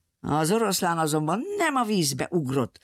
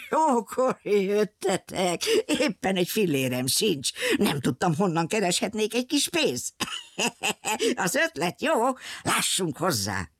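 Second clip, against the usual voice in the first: laughing sailor; 3 semitones higher than usual. Acted. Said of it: "A tengerész nagyot nevetett".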